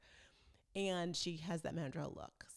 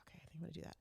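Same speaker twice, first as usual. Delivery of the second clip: resigned murmur; 9 dB quieter, much faster than usual. Retold or imitated. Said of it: "I'm like".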